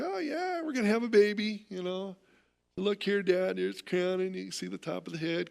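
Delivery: high, breezy, offhand doctor voice with no hurry; imitating casual doctor. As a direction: toss it off like a doctor with hours to spare. Husband imitates laid-back doctor.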